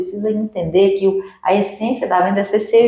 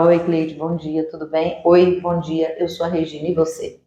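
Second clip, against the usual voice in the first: softer, lower, welcoming hello; welcoming greeting; 4 semitones lower, 3 dB quieter than usual. Shown as a demonstration. Mentor shows the client how to be welcomed, softly welcoming. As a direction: greet her like a guest you're glad to see. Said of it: "O que que é o acolher?".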